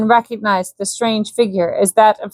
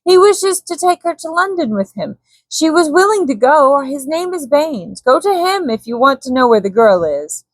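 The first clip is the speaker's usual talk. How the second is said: a frightened captive, pitched high and pleading; cowering Swede; 6 semitones higher than usual. A narrator's reading. Malbin pleads with threatening Korak, frightened and high. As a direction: beg for your life while blaming another.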